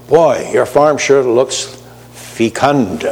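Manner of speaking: slow, lightly voiced folksy farmer admiring the field; mock farmer. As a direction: drawl it like a proud country neighbour. Mock farmer praising a farm.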